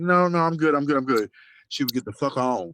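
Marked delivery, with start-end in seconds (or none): 0.0-1.3 high, brushing-off voice; mock polite refusal. Miss Silk turning down the boys, high mock refusal. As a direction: wave the boys off sweetly. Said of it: "she was like".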